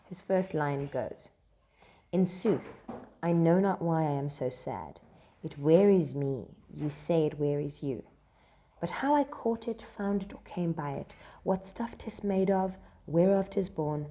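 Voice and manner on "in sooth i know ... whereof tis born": dramatic reading. Acted. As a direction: read it out as a stage line. Reads Antonio's lines aloud.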